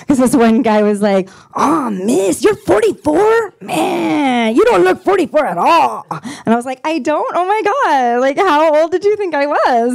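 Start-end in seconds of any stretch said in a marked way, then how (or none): 1.6-6.1 put-on teen boy. Teen boy flatters her. 6.8-9.9 flattered. Retold or imitated. Delighted reply to compliment.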